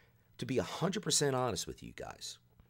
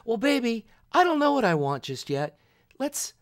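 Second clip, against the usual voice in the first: high, louder mock-sweet girlfriend; dithering girlfriend; 12 semitones higher, 8 dB louder than usual. Imitating the girlfriend stalling at the register, high cooing voice. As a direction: play the girlfriend cooing and undecided, pitched way up.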